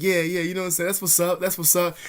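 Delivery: imitated catchphrase voice; imitating his imitator. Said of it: "doing me".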